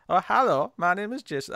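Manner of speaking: lightly voiced Wiseau-style greeting; a hint of Tommy Wiseau's odd lilt; Tommy Wiseau-ish Jason. Asked about the voice, repeating Jason's hello lightly Wiseau-ish. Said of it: "what voice am I even doing?".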